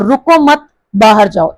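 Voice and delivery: "रुको मत" run together, stress on "रुको"; pause after मत. Shown as a demonstration. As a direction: join "रुको मत" and hit "रुको". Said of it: "एक जो कॉमा का प्लेस है वो चेंज कर देता है".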